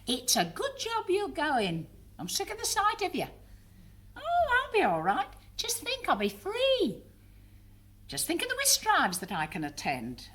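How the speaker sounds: chatty mum, pitch swinging high and dropping back; brave-faced mother. Acted. Mother reassuring family as they leave, brave-faced. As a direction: insist you'll be fine, a touch too brightly.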